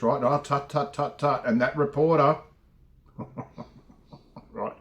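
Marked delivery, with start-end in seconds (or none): 0.2-1.4 a light scolding tut tut; mock tutting. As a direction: mildly imitate a disapproving moralizer. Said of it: "This is what they said with Jesus".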